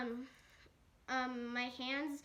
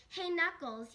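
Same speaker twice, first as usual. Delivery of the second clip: raised, louder call to someone; 5 semitones higher, 5 dB louder than usual. Acted. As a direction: hail them sharply, pitched up. Bird accosts Knuckles with a threat.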